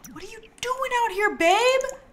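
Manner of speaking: squeaky-high, puzzled question to a babe; high-pitched fussing. Pretend. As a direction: pitch way up, climbing to the end. Addressing game character in disbelief.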